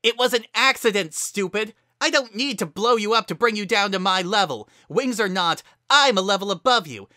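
fast, loud furious retort; angry shouting. A narrator's reading. Heated argument.

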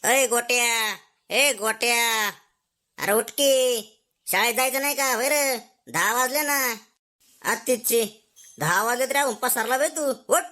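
a father calling his lazy son out of bed; father waking son. Acted. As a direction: scold him awake, like a father. (मुलाला उठवणारा वडिलांचा ओरडा)

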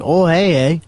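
playful put-on Canadian accent, eh. Conquering player mocking Canada in a Canadian accent. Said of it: "my Canadian accent".

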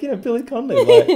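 high-pitched Scottish lilt; Scottish accent. Shown as a demonstration. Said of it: "Scottish are more like".

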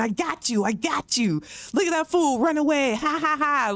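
a hint of a schoolyard jeer; mock taunting. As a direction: rub it in like a gloating player. Imitating taunting player.

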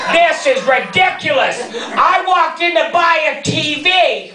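high, laughing mock yell; ironic "very nicely". Comic laughing rant at the clerk about the warranty. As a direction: rant at the clerk, exasperated and amused. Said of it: "I said very nicely".

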